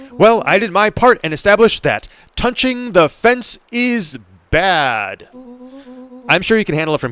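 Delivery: high, loud, drawn-out justification; hammed-up defensive character voice; excitable game character. Friend reporting back after touching the fence, loud and defensive.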